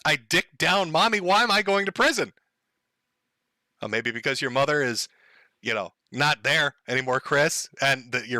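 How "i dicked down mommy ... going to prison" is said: mildly bewildered imitation; lightly acted puzzled protest; mock confusion. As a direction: play at innocent bafflement. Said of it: "completely confused?".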